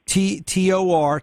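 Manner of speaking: slow letter-by-letter spelling. Shown as a demonstration. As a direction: spell it out slowly for a caller. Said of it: "how do you spell that".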